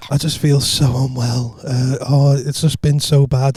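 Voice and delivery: slow, feeble faked illness; badly faked poorly voice; whiny call-in-sick voice, unconvincing; fake sick voice. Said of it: "put on my fucking sick voice".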